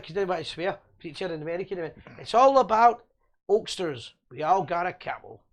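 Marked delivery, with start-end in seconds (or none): 2.2-5.4 rough attempt at an American preacher's accent; Chicago accent. Retelling an American preacher to the panel, mock Chicago accent. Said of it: "that was me doing my, my, my Kyle's Chicago accent".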